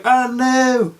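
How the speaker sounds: a little yelp of dread; retold panic. Before the driving test, a high worried mock panic. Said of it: "And I started freaking out".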